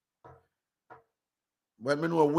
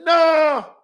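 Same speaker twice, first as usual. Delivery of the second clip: high, loud refusal; a high, loud flat refusal; sharp shouted no; 11 semitones higher, 8 dB louder than usual. Retold or imitated. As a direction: snap back with a shout. Woman refusing, retold shouting.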